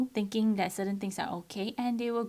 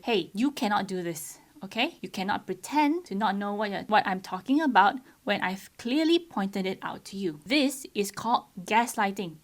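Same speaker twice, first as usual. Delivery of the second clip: firm; 4 dB louder than usual. Retold or imitated. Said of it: "I was very firm with them".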